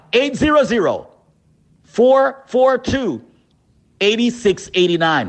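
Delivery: digits spaced out with long pauses; slow number read. Shown as a demonstration. Radio pitchman repeats the number for callers, slowly. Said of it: "Let me say the number slowly".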